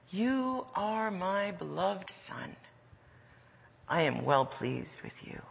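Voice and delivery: hushed, slow divine voice; voice from heaven. Acted. God claiming a beloved Son at the Jordan, hushed. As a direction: speak softly and tenderly, nearly whispering. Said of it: "a voice came from heaven".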